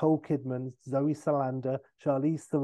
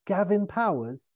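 Austin; 6 semitones higher, 4 dB louder than usual. Retold or imitated. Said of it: "And Austin".

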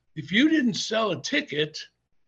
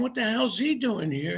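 higher-pitched mock disbelief; baffled outburst, imitating startled fans; mock freak-out; 4 semitones higher than usual. Wrestling fans see an intruder mid-match, mock freak-out. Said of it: "people start freaking out".

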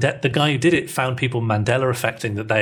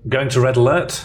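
starship officer; 4 dB louder than usual. Acted. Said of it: "Roleplay rejected".

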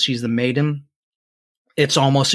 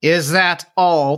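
high, slow, louder crone; old hag; 5 semitones higher, 5 dB louder, slower than usual. Acted. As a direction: drag out the question like an old witch. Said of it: "the crone says".

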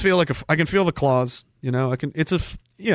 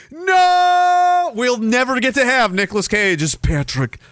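mock anguished cry; 7 semitones higher, slower than usual. Mock despair over lost casting.

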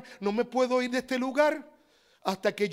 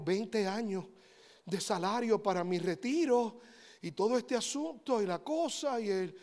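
whiny excuse; 2 semitones lower, 8 dB quieter than usual. Acted. Excuse of saving believer.

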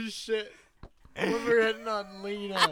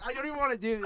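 frustrated yell; exasperated shout; 6 semitones higher, much faster than usual. Real, not acted. Repeated line, shouted.

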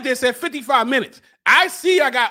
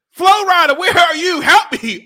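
high, raised desperate call; calling for rescue; 5 semitones higher, 5 dB louder than usual. Acted. Host calls an absent rescuer, desperate calling. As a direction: holler out for a missing rescuer.

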